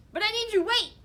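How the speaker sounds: high, loud pleading cry; desperate call. Acted. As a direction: call after her, desperate. Lizard calling after her.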